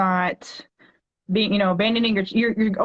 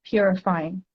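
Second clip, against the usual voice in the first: poem reading; 2 semitones higher than usual. Acted. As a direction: read it like a heartfelt poem to a child. Reads her poem aloud.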